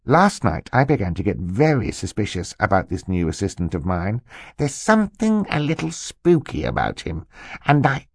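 lightly voiced conspiratorial uncle; secretive uncle. Uncle confides suspicions about his assistant, secretive. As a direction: confide with a hint of spooky suspense.

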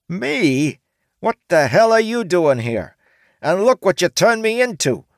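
high, loud furious yell; screaming. A narrator's reading. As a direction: orc woman screaming at the samurai. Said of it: "the orc woman screamed at him".

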